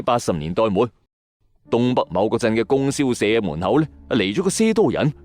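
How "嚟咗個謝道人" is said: plain reading voice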